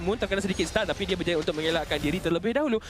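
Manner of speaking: lively live commentary; esports caster. Acted. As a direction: keep the play-by-play rolling. Live play-by-play casting.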